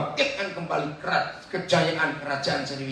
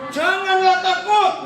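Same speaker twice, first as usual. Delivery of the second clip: high, loud, slow and firm; bold reassurance; 8 dB louder, slower than usual. Shown as a demonstration. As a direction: proclaim it to banish fear. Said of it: "Harusnya gimana kalau membaca?".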